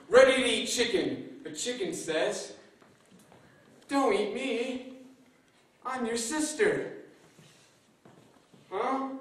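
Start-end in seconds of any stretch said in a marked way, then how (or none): 3.9-6.9 chicken voice. Acted. Chicken pleads with crocodile. 8.7-9.1 surprised huh. Acted. Crocodile surprised.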